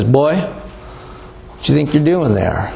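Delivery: slow, lightly voiced old farmer; old Texas farmer. Old farmer to lawyer at the fence, lightly played challenge. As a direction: challenge a trespasser in an unhurried farmer's voice. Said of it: "farmer drives up on his tractor".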